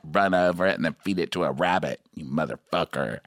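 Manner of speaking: Stassi impression. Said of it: "A Stassi impersonation".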